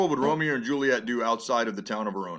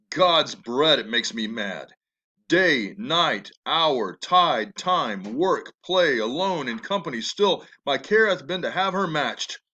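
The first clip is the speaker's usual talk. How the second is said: raging father; 3 dB louder, slower than usual. Acted. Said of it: "his strongest speech yet".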